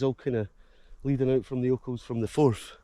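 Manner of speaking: breathless from the hill climb; puffing between words; out of breath. Real, not acted. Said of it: "I'm out of breath".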